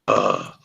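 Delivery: low, drawn-out groan; exasperated groan. Retold or imitated. Storyteller realizing he outed himself to everybody, exasperated groan. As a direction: groan low, annoyed at yourself.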